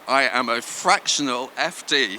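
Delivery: each word of "I am a fractional F D" spelled out slowly; slow it down so they catch it. Shown as a demonstration. Repeating the job title slowly for the audience. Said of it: "Shall I say that more slowly?".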